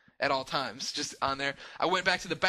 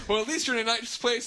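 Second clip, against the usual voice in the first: quoting Katie; 8 semitones higher, 3 dB louder than usual. Retold or imitated. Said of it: "She's like".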